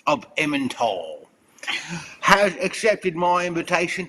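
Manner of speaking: hammed-up Cockney declamation; Cockney accent. Reading the second winner's Mad Lib for laughs, mock Cockney accent. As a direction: read it out as a theatrical Cockney. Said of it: "with a bit of a Cockney accent".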